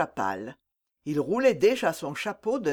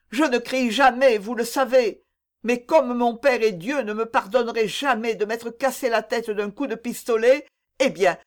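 higher-pitched, insistent declaration; desperate vehemence; 3 semitones higher than usual. Acted. Young lover threatening to seek the truth elsewhere, desperate vehemence. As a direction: keep it high and urgent, pressing on.

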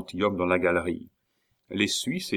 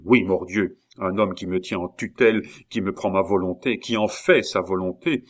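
angry outburst. Acted. Duke rages about Bussy.

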